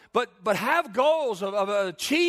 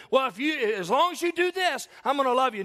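mock conditional lover; 4 semitones higher, faster than usual. Preacher voices people who set conditions.

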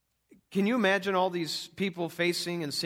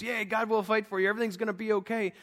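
higher, light mock enthusiasm; mock cheering; 5 semitones higher than usual. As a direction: imitate a crowd briefly cheered by a speech. Acting out cheered Israelites after speech.

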